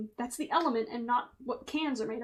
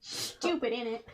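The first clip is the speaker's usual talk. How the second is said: mock British; 3 dB quieter, slower than usual. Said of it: "cheeky Nando's".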